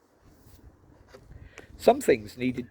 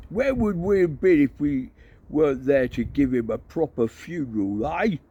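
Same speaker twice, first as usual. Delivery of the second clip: put-on raised, rousing old barbarian; rally the troops, ending in a shout; Cohen rallying; 5 semitones higher, 5 dB louder than usual. Cohen rallying the horde, rousing voice.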